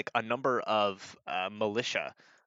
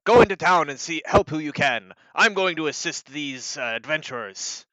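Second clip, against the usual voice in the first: loud, higher commander's voice; Sir Barracks; 3 semitones higher, 9 dB louder than usual. Acted. Commander addressing the knights, loud and commanding. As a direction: order the troops with force. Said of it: "turns to, to the knights and he says".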